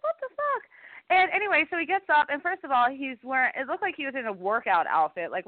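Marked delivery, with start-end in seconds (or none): 0.0-0.6 mock shock. Quoting her own shock.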